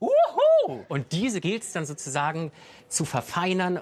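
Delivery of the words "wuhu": very high falsetto, head-voice whooping cheer. Explaining head voice, like cheering after scoring a goal: head-voice cheer on 'Wuhu'. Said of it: "Und dann hast du noch die Kopfstimme".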